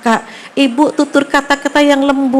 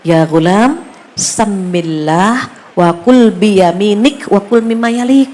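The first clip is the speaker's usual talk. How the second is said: gentle advice; 2 semitones lower, slower than usual. Retold or imitated. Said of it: "Betapa lembutnya beliau ngasih nasihat".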